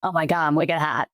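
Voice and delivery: light Boston accent on "wicked hot". Shown as a demonstration. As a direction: toss off a quick Boston accent. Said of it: "throw my Boston accent on".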